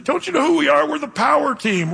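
high, proud strongman shout; excited boast. Retold or imitated. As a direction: announce it like a proud champion.

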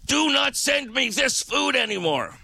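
high, exasperated scolding; retold fed-up tirade; exasperated rant. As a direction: rant at them like they're idiots. Angry retold rant at company.

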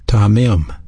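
tamim repeated alone as "tah-mim"; Hebrew pronunciation. Shown as a demonstration. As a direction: give tamim an open "ah" and a closing "mim". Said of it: "is a Hebrew word pronounced".

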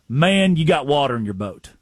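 a hint of a slow Southern coach. Coach answering a press question, lightly Southern. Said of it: "slow-talking, Southern".

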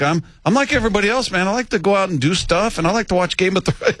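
high-pitched, comic athlete impression; Michael Bennett. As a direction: throw it in high and casual, imitating him. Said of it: "his voice, his, the pitch of it".

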